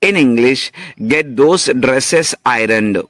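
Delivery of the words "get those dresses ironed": very slow and careful; slow teaching read. Shown as a demonstration. Teacher dictating slowly to students. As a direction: lay out each word. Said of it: "Once again".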